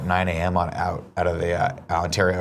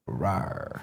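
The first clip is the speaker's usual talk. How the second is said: dinosaur voice; 4 semitones lower, 11 dB quieter than usual. Shown as a demonstration. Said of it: "think about it going like this".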